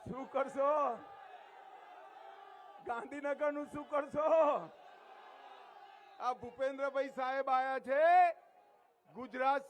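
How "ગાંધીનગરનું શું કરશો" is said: shouted question. Real, not acted. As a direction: call the question out to the whole crowd. Speaker repeats the question louder. (ભીડને બૂમ પાડીને પૂછવું)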